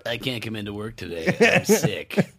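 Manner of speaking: a hint of a fake sick call; weakly faking being sick, laughing; faking frailty. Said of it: "That's your new character, sick robot?".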